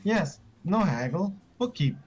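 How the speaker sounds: high creature voice, firm and insistent; little goblin standing firm on the deal; high goblin insisting. Acted.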